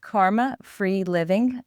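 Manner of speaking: dropped G New York accent; Karma Free Livin' with a New York accent. Real, not acted. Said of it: "with my New York accent".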